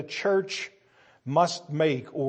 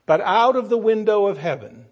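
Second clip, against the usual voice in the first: raised, high and loud; preaching climax; 6 semitones higher, 7 dB louder than usual. Acted. Preacher telling how heaven answers, loud and high. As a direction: lift it up to heaven.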